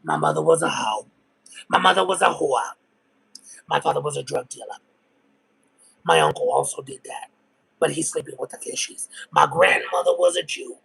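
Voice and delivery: imitating her. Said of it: "And it's like".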